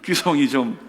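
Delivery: high, loud, drawn-out plea, easing down at the end; imitated tearful prayer. Friend praying for his heartbroken classmate, imitated tearful pleading. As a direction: cry out to God, then sink into pleading. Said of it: "제가 울면서 이렇게 했습니다".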